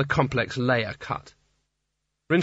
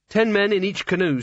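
grim; 7 semitones higher than usual. A narrator's reading. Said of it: "said Kanina grimly".

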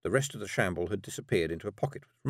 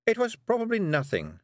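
witch voice; 13 semitones higher, 3 dB louder than usual. Acted. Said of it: "she said".

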